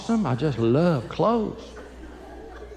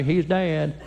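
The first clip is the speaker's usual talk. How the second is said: deadpan wife; slower than usual. Retold or imitated. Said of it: "she'll call the funeral director and say".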